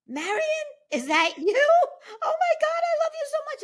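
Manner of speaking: overwhelmed, crying and laughing at once; tearful joy. Retold or imitated. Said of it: "And I'm crying".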